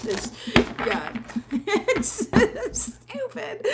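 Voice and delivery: laughing it out, high and slow. Real, not acted. Reader laughing about failed candle magic. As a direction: laugh at how silly it is.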